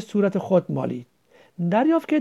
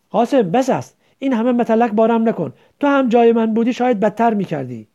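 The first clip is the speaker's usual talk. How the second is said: angry protest; 3 semitones higher, 6 dB louder than usual. Acted. Majid protests the taunts.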